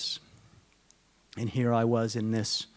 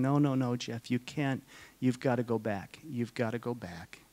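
retold crying plea; 3 dB quieter than usual. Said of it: "She was actually emotional and crying".

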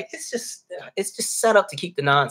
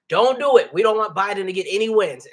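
raised, higher voice quoting a politician; mock urgent order; 4 semitones higher, 4 dB louder than usual. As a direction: retell a boss's order, pitched up and louder. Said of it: "Orange man told everybody".

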